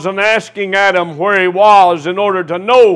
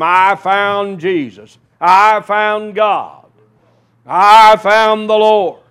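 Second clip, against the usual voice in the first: mocking weak testimony; 2 semitones higher, 4 dB louder, slower than usual. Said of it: "these little weak testimonies".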